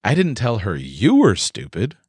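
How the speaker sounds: "you" lifted and leaned on; stress on you. Shown as a demonstration. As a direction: aim the word "you" at the listener. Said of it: "someone else was stupid".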